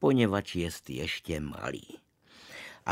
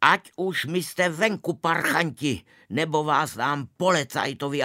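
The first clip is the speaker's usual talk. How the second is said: much higher and louder angry yell; furious roar; 6 semitones higher, 5 dB louder than usual. Acted. Usher yelling at the sneaking boys, furious roar. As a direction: bellow at the kids to get out. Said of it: "A strašně zařval".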